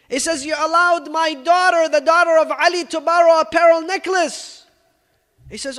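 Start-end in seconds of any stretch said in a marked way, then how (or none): 0.4-4.7 rebuke. Retold or imitated. Ali rebukes the treasurer.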